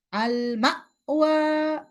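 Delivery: আল মাওয়া pitched high and slow with the hamza chopped; a cut-off hamza in মাওয়া, said as an error; wrong recitation. Shown as a demonstration. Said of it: "ওটা ভুল".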